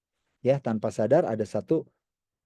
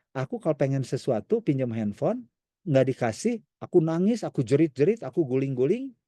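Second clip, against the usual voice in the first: put-on spoiled child voice; 2 semitones higher than usual.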